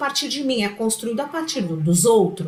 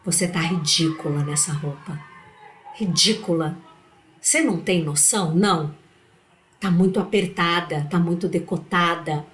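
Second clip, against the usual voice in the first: a lower, cutting put-down; inner critic voice; 4 semitones lower than usual. Retold or imitated. Her inner critic mocking her outfit, low and cutting. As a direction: sneer at yourself like a harsh inner judge. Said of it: "quando essa voz diz assim".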